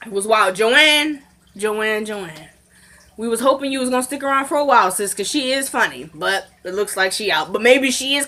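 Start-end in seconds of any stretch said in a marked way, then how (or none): 0.6-2.5 fading farewell call. Pretend. Sing-song farewell to departing character.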